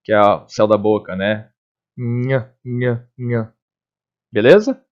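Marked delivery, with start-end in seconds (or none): 2.0-3.5 soft, separate "nha" syllables, tongue up on the palate; palatal NH. Shown as a demonstration. Teacher showing the palatal sound, quiet repeated "nha". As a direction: hum into each "nha" from the palate. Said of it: "você sobe a língua lá no palato".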